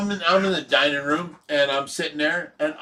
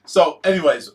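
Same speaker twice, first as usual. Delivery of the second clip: usual speaking voice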